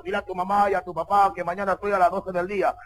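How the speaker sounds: a hint of a bossy tough guy; cocky suitor. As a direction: give orders with a touch of mock swagger. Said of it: "Otros ya son recontra choradazos".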